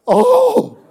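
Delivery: high, loud oh with a sob in it; cry of longing. Shown as a demonstration. Preacher demonstrating Paul's anguished oh, crying out. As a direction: ache as you cry it out. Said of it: "It's an".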